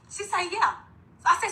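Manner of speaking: high, upset crying voice; distraught mother crying and yelling. Real, not acted. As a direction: voice breaking as the anger rises. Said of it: "So I instantly went up crying".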